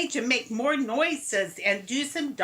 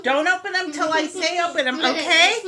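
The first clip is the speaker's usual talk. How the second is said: giggling through the words; laughing; faster than usual. Real, not acted. Mom laughing while keeping the girls' eyes shut. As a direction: laugh as you tease them.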